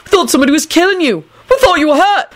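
high, exasperated outburst; incredulous high-voiced tirade; screaming. A narrator's reading. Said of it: "Neville screamed".

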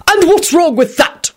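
slow, high-pitched indignant boom. A narrator's reading. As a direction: boom it out as a challenge. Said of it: "Richard boomed".

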